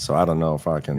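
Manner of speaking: a hint of put-on Southern; Southern accent. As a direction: slip into a half-serious Southern accent. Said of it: "I did that in a weird accent".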